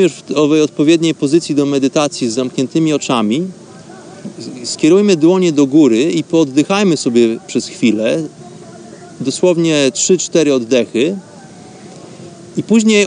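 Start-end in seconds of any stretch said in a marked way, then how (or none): none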